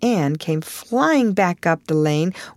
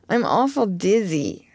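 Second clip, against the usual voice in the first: put-on dizzy girl; 3 semitones higher than usual. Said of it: "said Diana".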